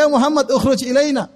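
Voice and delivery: high-pitched summons, only mildly loud; retold loud calling. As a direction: imitate someone calling out by name. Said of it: "dengan suara keras".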